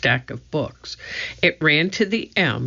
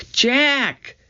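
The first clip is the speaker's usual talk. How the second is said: calling out; 11 semitones higher than usual. A narrator's reading. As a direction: shout his name from far away. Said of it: "Annie called from the woods".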